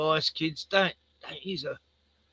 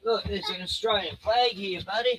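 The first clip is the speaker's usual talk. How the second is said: higher, cheery parent voice; 6 semitones higher than usual. Real, not acted. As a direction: show it off to a little one. Parent showing toddler a flag.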